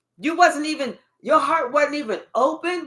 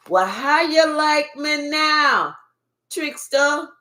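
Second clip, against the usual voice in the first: gloating at the trickster; taunting call-out; 3 semitones higher, slower than usual. Real, not acted. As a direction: rub it in, triumphant.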